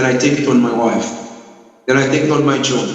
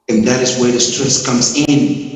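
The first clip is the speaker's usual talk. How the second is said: ordinary delivery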